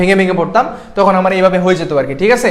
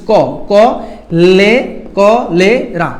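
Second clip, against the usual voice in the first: syllable demo; much slower than usual. Shown as a demonstration. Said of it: "এইভাবে করে".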